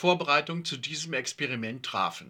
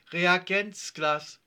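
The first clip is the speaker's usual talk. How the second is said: Reagenzglas drawn out slowly, higher; correcting; 4 semitones higher, 4 dB louder, much slower than usual. A narrator's reading. Dominik corrects a friend unperturbed, slow Reagenzglas. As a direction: sound out Reagenzglas slowly and firmly. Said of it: "korrigierte Dominik unbeirrt".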